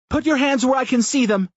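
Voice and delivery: high, loud command shout; armed command. A narrator's reading. Tina holding a man at gunpoint, shouting loud and high. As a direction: bark it at gunpoint. Tina draws her gun on him.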